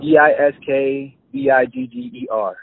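D I S K B I G G E R spelled slowly letter by letter; spelling it out. Shown as a demonstration. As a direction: spell D I S K B I G G E R one letter at a time. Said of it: "what's the name of the app".

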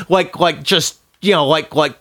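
laughing through the words; real laughter. Real, not acted. Telling the theater story, laughing. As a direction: giggle while trying to talk. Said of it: "start gut laughing".

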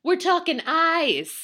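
slow, loud, heavy emphasis on each word; slow dramatic punchline delivery. Acted. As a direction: lay it on thick for the shock. Dramatic build-up of gross details.

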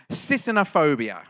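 confident, committed pronunciation of Sisinophobia; said with belief. Shown as a demonstration. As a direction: say Sisinophobia as if sure it is right. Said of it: "I said it with kind of belief there".

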